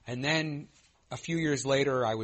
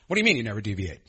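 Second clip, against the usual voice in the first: louder, hostile challenge, not kind; attacking; 2 semitones lower, 7 dB louder, much faster than usual. Retold or imitated. Confronting the sponsor about never deviating, hostile. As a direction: hit him with it, not curious. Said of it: "Attacking, not like a kind, like, interested".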